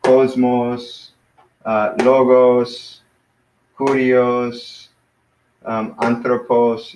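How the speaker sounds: "Cosmos, logos, kurios, anthropos", each stressed at the front; first-syllable stress. Shown as a demonstration. Teacher drilling words accented on the first syllable, front-stressed. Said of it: "have it on the first syllable".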